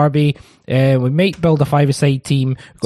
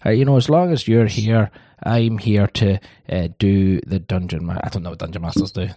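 lower, loosening tipsy manager voice; getting drunker; 5 semitones lower than usual. Acted. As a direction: play it like the drinks are kicking in. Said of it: "He's getting drunker and drunker".

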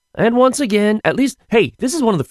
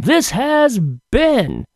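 announcer voice; slower than usual. Acted. Drawn-out announcer sign-off.

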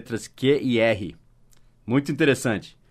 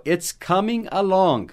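slow, higher, each word laid out for learners; slow model line; 7 semitones higher, slower than usual. Shown as a demonstration. Teacher modelling the English phrase for students, slow and clear. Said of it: "Mas ele respondeu".

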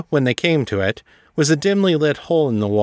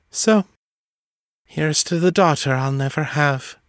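bittersweet toast; 5 semitones higher than usual. A narrator's reading.

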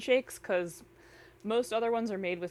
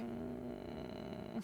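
sad noise; 2 semitones higher, 17 dB quieter than usual. Shown as a demonstration. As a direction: moan it like a sad bulldog puppy. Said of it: "what do your sad noises sound like".

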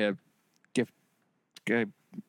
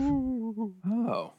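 high, drawn-out spooky wail; mock ghost; 9 semitones higher than usual. Friend joking about knocking on the wall, mock spooky. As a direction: play a spooky ghost, pitched up. Ghost sound after "It's a ghost.

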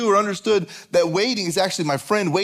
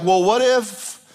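higher-pitched anxious what-if; mock freaking out; 4 semitones higher, 3 dB louder than usual. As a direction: act out mounting worry, drawn out at first. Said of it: "So we start freaking out".

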